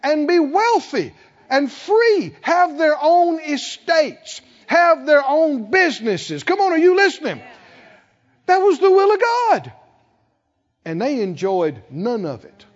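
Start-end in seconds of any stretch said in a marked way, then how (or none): 2.4-9.7 much higher and louder preacher's cry; fiery pulpit exhortation; preaching at full force. Acted. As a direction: drive it home to the congregation.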